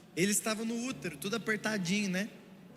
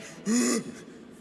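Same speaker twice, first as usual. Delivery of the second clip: imitated roaring bray; 3 semitones higher, 4 dB louder than usual. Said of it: "ela soltava um zurro igual o do Shrek".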